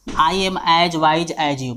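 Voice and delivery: the whole sentence in one very slow run, no gaps; slow whole-sentence dictation. Shown as a demonstration. Teacher reading the sentence back to students, slow and even. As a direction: read it out slowly as one line. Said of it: "मान लीजिए एक example है".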